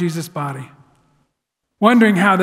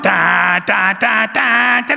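mock marching band; much slower than usual. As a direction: hum a brass band tune. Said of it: "marching band in the back going".

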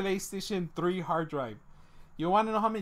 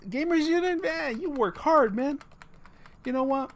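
mock Jamaican accent.

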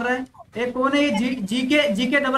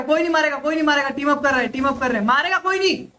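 raised, insistent commands in quick repeats; urgent calling out; 3 semitones higher than usual. Real, not acted. Player ordering teammates to hold fire, urgent calling out. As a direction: call out to halt the whole squad.

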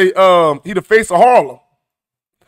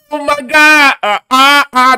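high, loud gasp of disbelief; stunned shock; 6 semitones higher, 4 dB louder, slower than usual. Acted. Reacting to the SMD reply, stunned shock.

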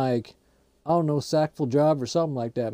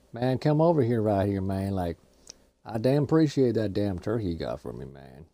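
Boomhauer; 5 semitones lower than usual. Acted. Boomhauer grumbling to his buddy about getting shot, low mumble.

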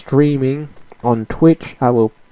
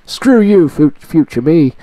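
high sharp scolding; mock scold; 4 semitones higher, 3 dB louder than usual. Real, not acted. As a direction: snap at your future self. Mock scolding of future self.

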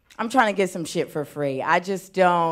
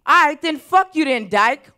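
imitating a fed-up man, loud and high; mad retort; 8 semitones higher, 8 dB louder than usual. Construction worker to the woman who turned him down, mad. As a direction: throw out a mock-angry insult. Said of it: "got so mad. He was like".

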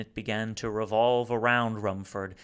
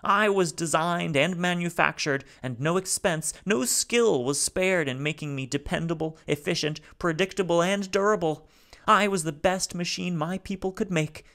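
high, louder, halting alien voice; speaking haltingly; 8 semitones higher, 5 dB louder than usual. Acted. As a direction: Salo piecing his words together. Salo's voice.

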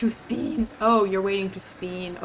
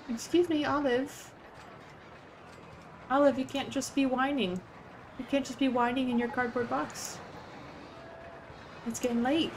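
playful pet scolding; 5 semitones higher than usual. Real, not acted. Scolding her whining cat.

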